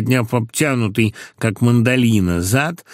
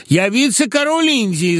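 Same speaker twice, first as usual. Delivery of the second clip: much higher, emboldened proclamation; bold declaration; 12 semitones higher than usual. A narrator's reading. Emboldened accountant declares himself viceroy again: high, proud. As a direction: declare it grandly, gaining courage. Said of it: "заявил он, осмелев".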